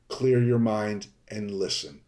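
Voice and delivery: ordinary delivery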